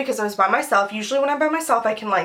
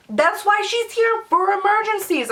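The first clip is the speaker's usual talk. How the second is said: imitating exasperated mother; 10 semitones higher than usual.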